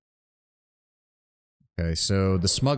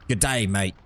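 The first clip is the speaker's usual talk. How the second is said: mock Australian accent; 2 semitones lower, slower than usual. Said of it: "he had, like, an Australian accent".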